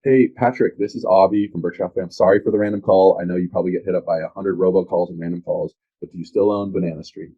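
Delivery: friendly agent opening a cold call, lightly acted; a touch of upbeat phone-pitch voice; role-played cold call. Shown as a demonstration. Agent demos his intro call to a landlord, lightly acted upbeat pitch. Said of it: "I'll role play it with, this is my intro".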